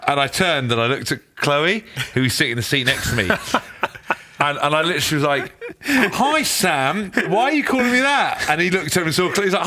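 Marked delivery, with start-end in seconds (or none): 5.8-8.4 high, stunned, protesting squeak; shocked squeak. Retold or imitated. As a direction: play it as if caught out, voice jumping high. Retold shocked reply to Sam.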